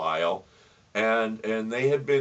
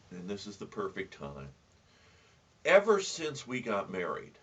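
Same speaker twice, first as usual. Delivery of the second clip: soft, low, gently reassuring voice; calming wife; 6 semitones lower, 8 dB quieter than usual. Acted. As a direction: play the wife quietly soothing her husband. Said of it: "calmed him".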